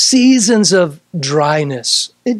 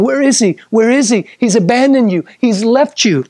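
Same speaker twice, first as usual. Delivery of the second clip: mocking taunt; 3 semitones higher than usual. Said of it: "mocked by those voices".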